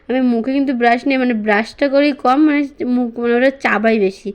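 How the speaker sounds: talking with a toothbrush in mouth; while brushing teeth. Real, not acted. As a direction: mumble around the toothbrush. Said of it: "আর এই যে brush করছি".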